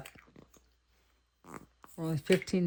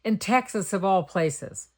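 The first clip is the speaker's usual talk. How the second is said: higher and louder, mildly thrilled; thrilled exclaim; 6 semitones higher, 5 dB louder than usual. Retold or imitated. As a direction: retell the joy of finally seeing it. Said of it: "And I said".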